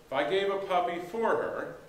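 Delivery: "for" given the weight of the line; stress on for. Shown as a demonstration. Pastor explaining the example, leaning on "for". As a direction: lean on "for" to set up the meaning. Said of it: "just for an example".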